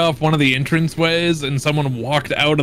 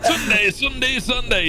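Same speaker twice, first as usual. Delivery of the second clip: monster truck ad; 8 semitones higher than usual. Retold or imitated. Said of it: "over-the-top American ones".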